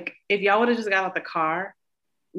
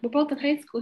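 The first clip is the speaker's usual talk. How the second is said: high-pitched mimicry of an excuse; mocking echo; 8 semitones higher than usual. Sibling throwing brother's excuse back, high mocking. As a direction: parrot it back derisively, pitched up.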